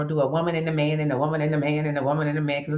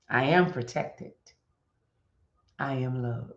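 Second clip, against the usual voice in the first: mantra; 3 semitones higher, slower than usual. Acted. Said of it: "Let me just go that again".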